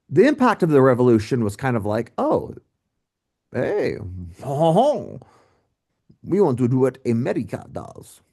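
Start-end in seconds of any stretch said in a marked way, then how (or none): 2.2-8.2 a bad, hammed-up French accent; mock French revolutionaries cheering in a French accent. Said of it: "I'm not very good with French accents".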